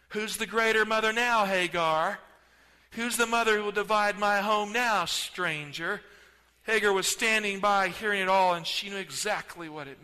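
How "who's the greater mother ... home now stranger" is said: taunting. Acted. Sarah taunts Hagar.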